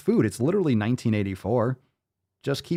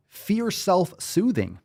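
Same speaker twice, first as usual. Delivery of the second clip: mocking echo; 8 semitones higher, much slower than usual. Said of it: "mocking the quote".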